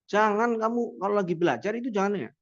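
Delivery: mock stern telling-off of a child; harsh scolding tone. Shown as a demonstration. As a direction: scold the pupil sharply. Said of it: "Itu kan nadanya keras sama marah ya". (nada keras dan marah)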